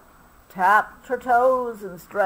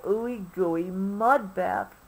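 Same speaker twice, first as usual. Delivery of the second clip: slow, savoring the words; drawn-out dreamy wish; slow dreamy longing; 5 dB quieter than usual. Acted. Obie still searching.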